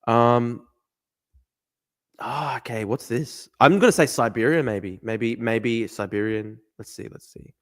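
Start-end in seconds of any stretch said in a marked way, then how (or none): none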